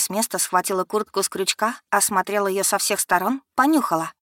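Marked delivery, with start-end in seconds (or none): 3.5-4.1 Becky catching her sister out; распознала с упрёком; upset recognition. Acted. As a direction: voice jumps up, tense and accusing. Becky recognizes Simon's jacket.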